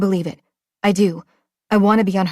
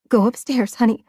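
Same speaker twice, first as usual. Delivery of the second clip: voice cracking; 3 semitones higher than usual. Acted. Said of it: "Her voice cracks".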